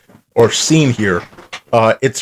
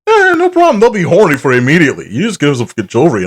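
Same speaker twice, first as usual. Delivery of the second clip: mock macho pitch rising much higher, faster; mocking sixties guy; 5 semitones higher, faster than usual. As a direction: parody of a cocky old-school husband, pitch soaring. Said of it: "it's parodying off that".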